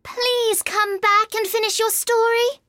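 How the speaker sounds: high-pitched pleading call; calling after. A narrator's reading. Alice calling after the departing mouse, pleading. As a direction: call after someone who is leaving. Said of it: "Alice called after it".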